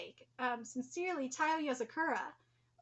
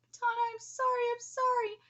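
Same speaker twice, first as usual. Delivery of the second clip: a hint of Ryu begging forgiveness; retold apology; 5 semitones higher than usual. Daughter retelling Ryu's tearful apology, lightly voiced. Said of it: "The first thing you said to me".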